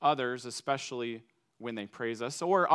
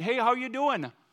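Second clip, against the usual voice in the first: Minnesotan accent, pitched way up; 10 semitones higher, 3 dB louder than usual. Explaining Minnesota nice by greeting someone, in a Minnesotan accent. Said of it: "in your best Minnesotan accent".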